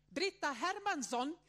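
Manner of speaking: high, slow call of a full name, with a laugh; a child loudly calling out the full name, laughing as it rises. Retold or imitated. Child suddenly calling her name. (ett barn som ropar högt och långsamt hela namnet, med skratt)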